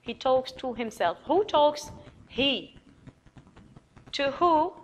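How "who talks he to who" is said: quizzing questions. Shown as a demonstration. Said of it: "teacher asking questions".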